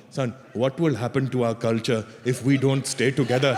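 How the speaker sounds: put-on guilt-trip your son in an Indian accent; mock-mournful Indian parent appeal. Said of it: "this is the bullshit they pull on them".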